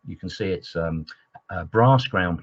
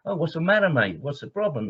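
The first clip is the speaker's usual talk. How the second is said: Cockney Harry; 7 semitones higher than usual. Retold or imitated. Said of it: "two Cockney chaps talking".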